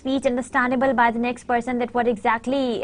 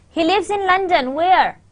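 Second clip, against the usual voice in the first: "London" and "where" both falling; no question intonation; 3 semitones higher than usual. Shown as a demonstration. Teacher showing a pattern that conveys nothing, falling on "where". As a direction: say "where" as a statement, without any questioning lift. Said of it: "did you get anything out of it? No".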